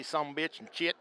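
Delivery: thick Texas country accent on the words; Texas drawl. Shown as a demonstration. Ex-soldier showing his old Texas accent. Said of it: "I used to talk like this".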